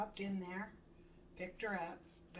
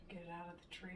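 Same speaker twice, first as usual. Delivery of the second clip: ordinary talk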